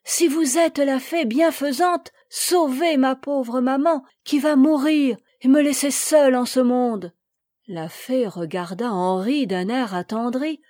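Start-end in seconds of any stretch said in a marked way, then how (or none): 0.0-7.1 higher, louder begging; a small boy begs the fairy to save his dying mother; pleading cry. A narrator's reading. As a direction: implore her with everything he has.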